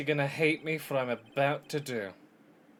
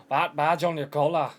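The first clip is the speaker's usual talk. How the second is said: louder put-on Scottish accent attempt; loud, rough go at a Scottish character; 7 dB louder than usual. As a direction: push the mock-Scottish voice out loud. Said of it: "I think I've devolved Scottish".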